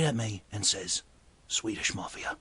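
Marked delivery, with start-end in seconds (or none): 1.5-2.4 hushed confession. Retold or imitated. Gordon confides, looking around.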